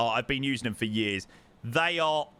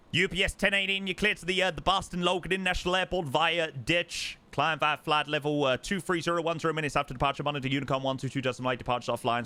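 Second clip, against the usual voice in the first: rapid American ATC; faster than usual. Retold or imitated. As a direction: rattle off the clearance quickly. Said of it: "American clearance is so long".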